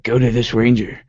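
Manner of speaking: a light, bad English accent; lightly mimicked English accent. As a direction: attempt an amateur English accent. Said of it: "with an English accent".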